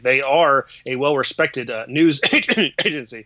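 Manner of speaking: trying not to laugh, breaking on "news"; barely straight-faced. Real, not acted. Co-host calling The Atlantic respected, barely straight-faced. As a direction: stumble through mock praise with a stifled laugh. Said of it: "trouble saying that with a straight face".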